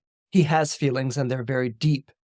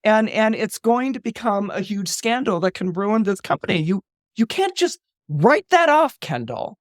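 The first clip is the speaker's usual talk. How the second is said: warning; 6 semitones higher than usual. Retold or imitated. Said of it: "She's like".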